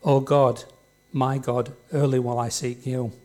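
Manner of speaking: solemn Bible reading to the congregation; scripture reading. Acted. Preacher reading a psalm aloud to the church, solemn. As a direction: read each phrase as a prayer.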